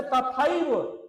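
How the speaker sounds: तथैव को बहुत धीरे, हर अक्षर अलग करके; उदाहरण शब्द तथैव धीमे-धीमे खींचो; धीरे खींचकर. Shown as a demonstration. Teacher drawing out example word. (छात्रों को तथैव धीरे-धीरे समझाते हुए)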